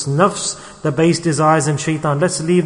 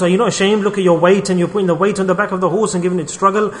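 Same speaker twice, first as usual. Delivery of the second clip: imitated scolding, picking up speed; shaming rebuke; 3 semitones higher, faster than usual. Onlookers scolding a couple for burdening their horse, shaming rebuke. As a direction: act out an onlooker telling them off, quickening.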